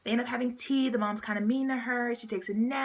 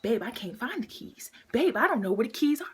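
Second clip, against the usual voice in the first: mock-helpless girlfriend, swooping pitch; playing games; 2 semitones higher than usual. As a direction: imitate her faking helplessness to stall him. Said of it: "she's playing games".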